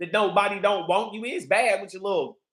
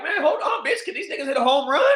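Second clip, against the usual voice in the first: laughing shout; 6 semitones higher than usual. Retold or imitated. At the scoreless ballgame, high laughing holler. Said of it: "I was like".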